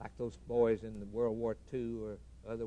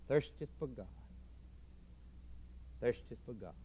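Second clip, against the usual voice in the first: much softer, lower on the echo; hushed repetition; 3 semitones lower, 11 dB quieter than usual. Acted. Preacher repeating the line softly to the congregation. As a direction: let it fade into a hush.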